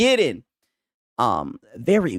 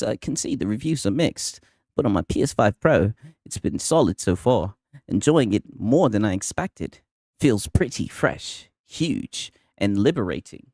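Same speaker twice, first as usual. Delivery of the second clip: lower-pitched put-on accent of the podcaster, gushing like a reviewer; Nib accent; 6 semitones lower than usual. Streamer mocking Nib's post in a lower Nib accent. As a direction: read the praise in a lower mock podcaster accent. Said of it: "he says".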